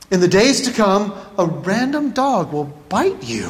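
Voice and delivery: measured reading, slowing towards the end; mock fortune reading.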